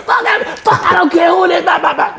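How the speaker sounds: mock shouting let's go; fired-up challenge. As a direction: bark it like squaring up. Father refusing to stop.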